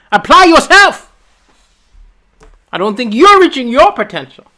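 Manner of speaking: turning dad's line back on him, loud and high; mock father voice. Son scolding his dad about Malawi. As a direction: lecture your own father. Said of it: "I said".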